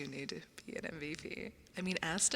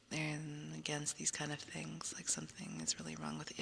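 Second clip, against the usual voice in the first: whispering; 3 semitones lower than usual. Acted. ASMR whisper.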